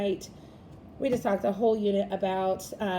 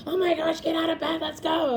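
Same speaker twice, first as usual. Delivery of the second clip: put-on higher, louder exasperated parent rushing a kid; impatient parent; 6 semitones higher, 3 dB louder than usual. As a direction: play a fed-up mum hurrying her child out of bed. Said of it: "instead of being like".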